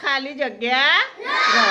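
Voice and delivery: drawn-out, letter by letter with pauses; slow read-out. Shown as a demonstration. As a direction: read the gapped word slowly for a class. Teacher reads out gapped word.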